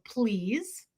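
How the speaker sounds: soft please, rising at the end; soft polite "Please." with a rising end. Retold or imitated. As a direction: say "Please." softly with a lifting, friendly tail. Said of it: "And I would always go".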